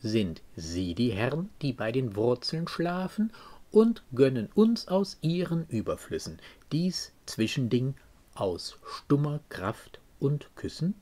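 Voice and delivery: measured verse reading with deliberate pauses; poem recitation. Acted. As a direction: recite the verse as one long, suspended question. Quotes the poem before explaining it. (bedächtig rezitierte Gedichtzeilen)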